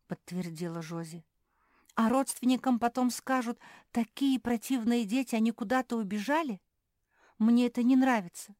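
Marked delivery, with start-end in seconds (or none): 1.9-8.5 higher, louder frightened rush; scared voice climbing louder. Acted. Phil fearing the lies told to relatives, frightened. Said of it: "испуганно сказал Фил".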